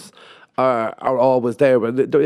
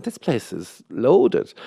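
mock awe; much slower than usual. Visitor impressed by posh road.

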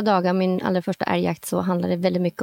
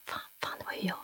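near-silent, much softer whispered curse; panicked whisper; 16 dB quieter, much faster than usual. Retold or imitated. Hunter whispering before admitting she fired. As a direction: mouth it in dread. Realises she must answer.

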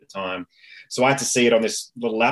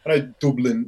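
Dublin said the local Dublin way; Dublin accent. Shown as a demonstration. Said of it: "like a real Dublin".

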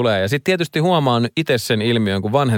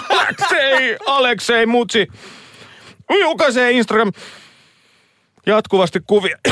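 strained reading; 12 semitones higher than usual. Real, not acted. Host reading news after sniffing ammonia, strained high voice. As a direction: push the words out while your nose burns.

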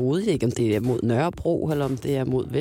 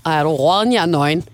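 louder, lively imitation of a friend; friend's quip; 4 dB louder than usual. Quoting a friend botching a proverb, lively imitation. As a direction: punch out the mangled proverb, mock exclamation. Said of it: "Og så sagde han".

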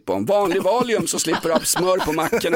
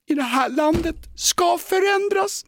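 mock shock; 11 semitones higher than usual. Host hams up shock at the butter news, mock disbelief. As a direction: play the outrage over nothing, pitched up.

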